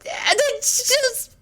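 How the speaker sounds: high, slow, sob-broken lament; sobbing. Acted. Fluttershy confesses her guilt to the doctor, sobbing high and slow. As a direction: weep through every word. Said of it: "racked with her violent sobs".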